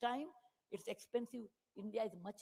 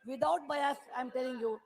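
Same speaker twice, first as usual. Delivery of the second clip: louder, hammering parliamentary speech; impassioned oratory; 6 dB louder than usual. Acted. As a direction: drive each point home to the House.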